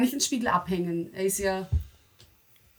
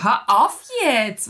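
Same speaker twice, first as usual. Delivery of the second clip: loud, slow stop command; 2 semitones higher, 10 dB louder, much slower than usual. Real, not acted. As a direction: tell them firmly to stop. Shouted stop in play.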